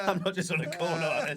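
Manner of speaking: high, laughing mock corner kid; street lad voice. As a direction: play a loitering teen. Mocking himself as street loiterer.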